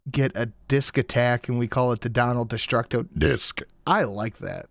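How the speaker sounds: talking through a burp; burping the words. Real, not acted. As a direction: burp out each word. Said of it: "Stop talk burping, man".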